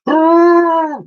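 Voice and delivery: very high, loud trumpeting hoot; mammoth hoot. Acted. Woolley the mammoth joining the cheer, trumpeting hoot. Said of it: "hooted Woolley".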